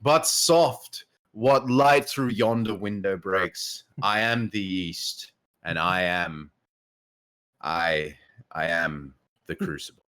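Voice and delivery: slow, a hint of booming Shakespeare; lightly voiced Shax. Streamer reads out Shax's Romeo parody, lightly voiced. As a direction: recite it like a grand warrior. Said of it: "Shax line does an unreleased line".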